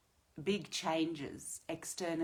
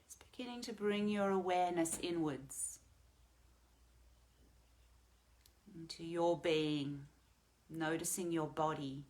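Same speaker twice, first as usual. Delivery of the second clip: calm meditation guide, with long pauses; guided meditation. Real, not acted. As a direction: gently lead them into the breath.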